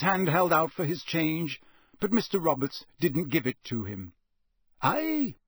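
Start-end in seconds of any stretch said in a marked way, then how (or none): 4.8-5.4 a high, musing "Aye" from the campsite owner; lightly voiced thoughtful owner; thoughtful countryman. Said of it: "he said thoughtfully".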